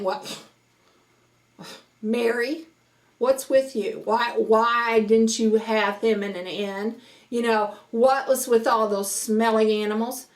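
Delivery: nose-in-the-air mock disapproval; mock snooty. Imagined critic scolding Mary over the stable, mock snooty. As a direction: question her as if turning up your nose. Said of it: "turning up our nose going".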